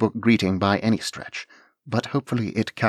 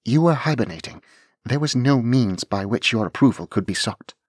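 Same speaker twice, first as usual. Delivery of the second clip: higher, louder formal greeting; formal young lady; 4 semitones higher, 3 dB louder than usual. Acted. Anne formally greeting the dragon Laird Kellynch.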